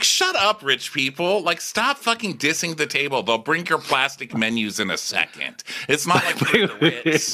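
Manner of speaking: high, sassy telling-off; mock scolding. Scolding the couple for dissing the table, high sassy. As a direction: snap back sassily. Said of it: "I was like".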